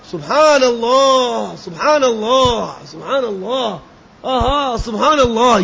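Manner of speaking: slow, fading, blissful exclamation; rapturous praise. Shown as a demonstration. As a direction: savour each word in wonder. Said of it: "وہاں کی سبحان اللہ بھی الگ ہوگی". (دھیرے دھیرے وجد میں سبحان اللہ)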